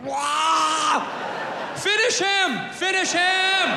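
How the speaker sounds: high, shouted announcer voice; fight game announcer. Pretend. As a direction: Mortal Kombat announcer call.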